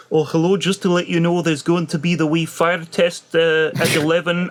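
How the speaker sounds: gently mocking a polite Scottish accent; polite Scottish guy. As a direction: imitate a courteous Scottish receptionist's accent. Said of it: "A very polite Scottish guy on the other end of the phone goes".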